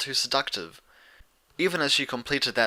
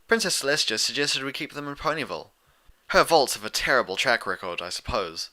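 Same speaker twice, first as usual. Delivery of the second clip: Twilight admitting; 3 semitones higher than usual. Acted. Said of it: "Twilight admitted with a shrug and a frown".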